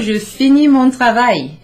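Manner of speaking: je finis said high and loud, finis as fee-NEE; clear French model. Shown as a demonstration. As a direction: model je finis mon travail brightly.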